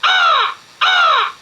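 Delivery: very high squawked caw, like a crow; cawing crow call mimic; imitated crow caw. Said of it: "the bird that calls".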